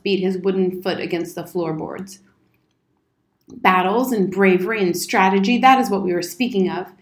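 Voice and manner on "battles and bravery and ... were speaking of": loud, emphatic military insistence; mildly indignant old soldier; insistent bluster. Acted. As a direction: hammer the point home. Soldier insists on his topic.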